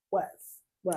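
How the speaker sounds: mimicking a friend's pointed "was"; imitated emphatic was. Friend teasing her about being so clear, emphatic "was". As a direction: repeat "was" as its own emphatic beat. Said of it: "'Cause you like".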